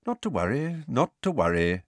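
easy, pleasant reassurance. A narrator's reading. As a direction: put them at ease pleasantly. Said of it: "said Dumbledore pleasantly".

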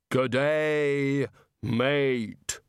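hollow, measured voice of Death. A narrator's reading. Death greeting Rincewind in his cell, calmly. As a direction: speak as Death, calm and final.

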